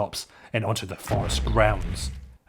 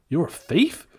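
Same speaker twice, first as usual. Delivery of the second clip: displeased; 7 semitones higher, 4 dB louder than usual. Acted. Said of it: "a little displeased".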